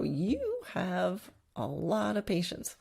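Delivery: slow, drawn-out mock amazement; imitated clinic-goers. People at clinics remarking to the trainer, slowly and pointedly. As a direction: draw it out slowly, stretching YOU and LOT. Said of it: "people at clinics have often walked".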